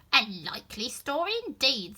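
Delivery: contempt. Acted. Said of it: "in a tone of deepest contempt".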